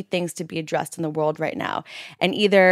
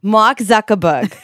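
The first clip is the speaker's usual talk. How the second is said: slow, loud, shouted New York Jewish voice; drawn-out New York Jewish accent; 2 semitones higher, 6 dB louder, slower than usual. Acted. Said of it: "talk in my Jewish voice".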